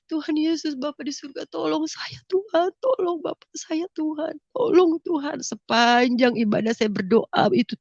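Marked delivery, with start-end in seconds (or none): 0.1-5.4 pleading prayer. Retold or imitated. Pleading prayer during worship.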